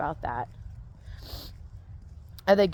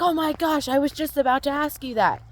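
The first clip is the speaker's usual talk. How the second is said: surprised; 5 semitones higher than usual. Retold or imitated. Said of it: "you're like".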